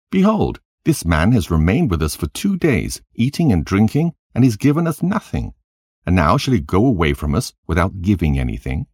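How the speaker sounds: a wife's mounting grievance, pitch climbing; indignant complaint. Acted. Wife complaining to Hadad about the guest, rising indignation.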